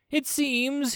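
high, deliberate beginning; considered opening. A narrator's reading. Commander rethinks tribute demand, considering. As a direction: begin as if weighing each word. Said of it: "with some consideration".

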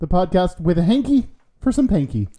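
mic pointed away, boomy room; sounding like in a toilet; echoing bathroom. Real, not acted. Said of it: "you sound like you're in a toilet".

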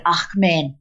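mother's South African accent, imitated. South African mum standing up to address her daughter, South African accent. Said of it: "She was South African".

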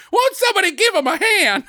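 high-pitched comic outcry; mock impassioned plea. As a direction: plead for him in hammed-up exasperation. Mock impassioned plea, others laughing.

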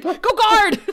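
mock-furious goddess shouting; shouted order. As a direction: bark the order at the minion. Glory barking order.

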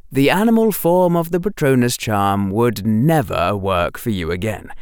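ordinary delivery, nothing marked

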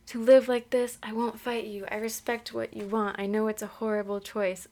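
measured reading with lightly acted dialogue; story narration. A narrator's reading. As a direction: read the story aloud with understated drama.

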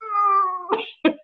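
mock grumpy child. Daughter screwing up face.

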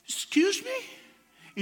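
high, very slow mock English speaker; stranger in English. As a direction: imitate a stranger stretching out a high excuse me. Stranger addresses him in English. (voz aguda y muy lenta imitando a un anglohablante)

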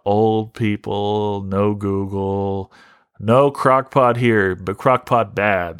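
slow, lightly voiced grunting caveman; mock caveman group motto. Mocking the group's description, slow caveman voice. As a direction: sound it out like a dim caveman, slowly. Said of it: "That's what it would say".

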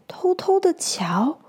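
sneaky storyteller whisper; hushed, secretive narration. A narrator's reading. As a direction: whisper it like peeking through a window. Hedgehog peeks secretly.

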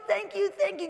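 put-on a lighter echo of a kid's delight; excited thanks. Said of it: "he gets so excited and he goes".

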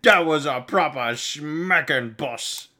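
slow, relishing orc voice; lightly voiced dazed orc; impressed orc grunt. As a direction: savour it like a battered grunt. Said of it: "one orc is like".

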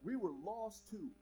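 We were lost too, slow and weighty; slow down and lean on each word; slow emphasis. Shown as a demonstration. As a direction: drive it home slowly. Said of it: "We got to remember".

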